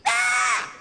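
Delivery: high loud charging yell; battle scream. Retold or imitated. Passenger rushing the homeless man, loud charging scream.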